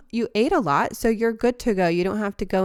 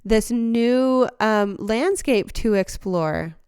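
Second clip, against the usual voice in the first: a hint of a toddler gazing at new leaves; wide-eyed toddler; 3 semitones higher than usual. Caterpillar pictured as a toddler, lightly voiced with wonder. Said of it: "opening up like a toddler".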